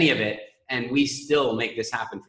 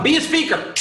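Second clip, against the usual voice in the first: high squeaky mock doctor; 4 dB louder than usual. Coach mimicking the doctor spanking a baby, squeaky. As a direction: pitch it way up like a silly doctor. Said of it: "He's smacking you on the bum".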